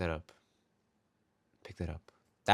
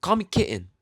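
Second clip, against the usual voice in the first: mock coy, much higher and louder; flirty woman; 9 semitones higher, 6 dB louder than usual. Server imitating customer asking to be called kitten. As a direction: purr it playfully high. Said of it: "customer's request".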